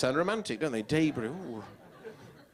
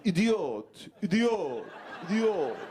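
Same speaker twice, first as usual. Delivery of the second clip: mock jeering; 4 semitones higher, much slower than usual. Passing drivers jeer at him on the hard shoulder, mock yelling. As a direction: jeer idiot at the stranded driver.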